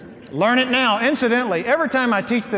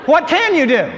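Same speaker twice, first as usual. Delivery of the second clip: laughing; 7 semitones higher than usual. Real, not acted. Preacher answering his own question.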